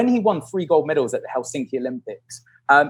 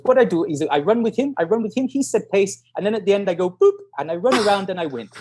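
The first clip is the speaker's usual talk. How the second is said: higher, simple foreign-sounding voice; imitated naive runner; 5 semitones higher than usual. Runner explaining race plan to coach, imitated high and naive. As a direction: lay out the plan in halting English, pitched up.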